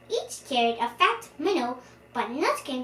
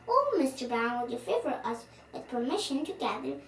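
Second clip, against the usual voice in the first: polite; 5 dB quieter, faster than usual. Acted. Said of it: "low bow and said politely".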